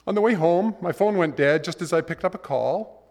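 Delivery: high aggrieved voice, words tumbling; complaining man. Retold or imitated. Man whining to God about his bad day. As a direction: pour out the grievance.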